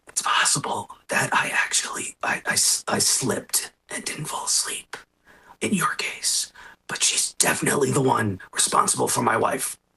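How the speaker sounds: hushed, hushing whisper.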